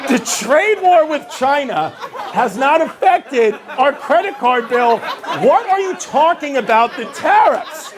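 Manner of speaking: mock-exasperated, stretching out the words; exasperated retort. Husband arguing with his wife over the bill, exasperated.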